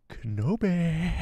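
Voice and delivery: slow, drawn-out, hammed-up Sith menace; Darth Maul growl. Maul impression for Pam, slow menacing name. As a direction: stretch the name out like a threat. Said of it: "Should I try it again?".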